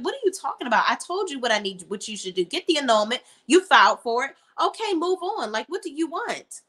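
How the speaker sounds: imitating an exasperated friend, pitch jumping up; mock-irritated retort; annoyed. Friend fed up with being asked for advice, annoyed. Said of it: "Gary is just as annoyed".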